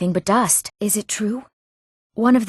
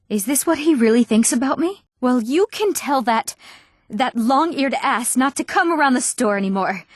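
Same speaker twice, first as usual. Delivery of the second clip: raised, offended tone; wounded outrage, pitched up; indignant; 4 semitones higher than usual. Acted. Woman rebuking her suitor over a letter, indignant.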